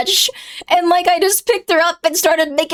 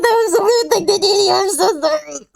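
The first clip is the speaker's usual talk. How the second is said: rushed, laughing apology; fast words through laughter. Real, not acted. Laughing as she apologizes to the driver again.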